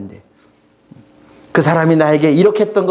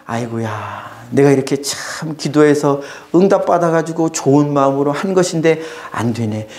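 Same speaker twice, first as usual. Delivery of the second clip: low sighing "아이고야", gentle regret; sighing lament; 3 semitones lower than usual. Acted. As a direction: sigh it out to a brother who misunderstands. Sighing lament to misunderstanding brother. (한숨 섞인 탄식)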